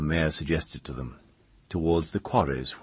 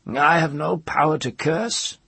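put-on high, loud old-woman voice; pitched well up, strong and pained; distressed old woman; 11 semitones higher, 5 dB louder than usual. A narrator's reading. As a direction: protest it in a high crone's voice.

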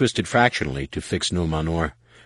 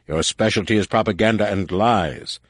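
rasping; 4 semitones higher, 3 dB louder than usual. Acted. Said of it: "Savon La rasped".

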